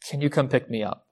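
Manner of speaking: soft, sheepish request, eyes down; sheepish ask. Retold or imitated. Broke child texting dad, soft sheepish ask. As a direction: ask small, embarrassed to be asking. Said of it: "and sheepishly".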